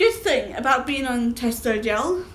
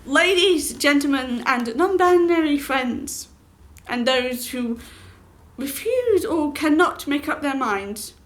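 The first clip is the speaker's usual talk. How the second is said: hammed-up announcer call, louder and higher; grand announcer; 3 semitones higher, 4 dB louder, slower than usual. Vlogger greeting viewers as a mock announcer. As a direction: boom it out like a ringmaster. Mock formal address to audience.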